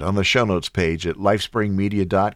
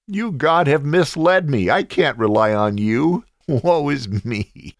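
mock tantrum; 3 semitones higher than usual. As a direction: throw a hammed-up fit at God. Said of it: "how's that for a tantrum".

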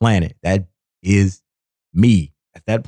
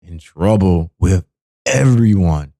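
quick mock complainer; much faster than usual. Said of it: "I guess you can say".

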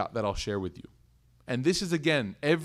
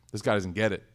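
incredulous; 6 semitones lower than usual. Retold or imitated. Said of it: "She's like".

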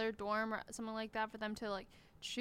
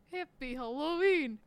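meme voice; 3 semitones higher, 4 dB louder, slower than usual. Retold or imitated. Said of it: "it's like that one meme".

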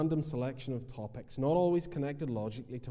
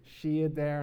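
puzzled inner question; 3 semitones higher than usual. Retold or imitated. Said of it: "and I thought".

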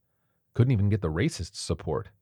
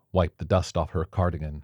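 ordinary delivery, nothing marked

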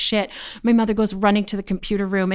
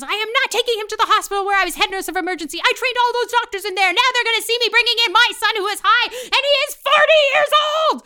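very high, frantic mom rant; mock-hysterical mother, far above usual pitch; outraged mother; 13 semitones higher, 5 dB louder, faster than usual. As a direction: rattle it off, building to a long shrieked last word. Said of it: "my mother comes running back and she goes".

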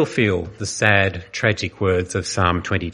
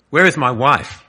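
raised, choking plea for his wife; a strangled, louder cry from a man lost in darkness; choked cry; 5 semitones higher, 5 dB louder than usual. A narrator's reading. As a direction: voice catching as he calls out. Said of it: "he choked".

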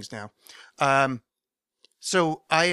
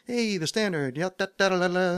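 hammed-up ad read; 6 semitones higher than usual. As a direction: sell it with jazz hands. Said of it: "it's like".

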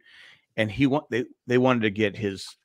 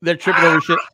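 normal talking voice

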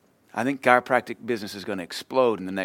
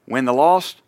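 proclaiming loudly; 8 dB louder than usual. Real, not acted. Proclaiming church vision.

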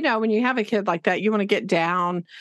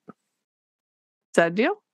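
slow coaxing question; much slower than usual. Retold or imitated. Teacher coaxing a reluctant student, slow rising question. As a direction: draw out is that a deal slowly, rising.

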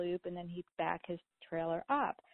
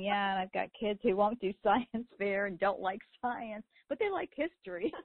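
laughing reply; 2 semitones higher, 4 dB louder than usual. Retold or imitated. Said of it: "And I'm saying".

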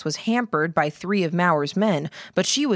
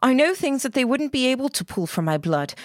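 urgent insistence; 6 semitones higher than usual. Acted. Emily insisting, rising pitch.

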